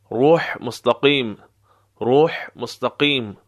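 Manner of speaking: روح ending in a breath from mid-throat; throaty ha. Shown as a demonstration. Teacher showing learners the letter, throaty ha in روح. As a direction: push the ح of روح from the middle of the throat. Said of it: "ها از وسط حلق".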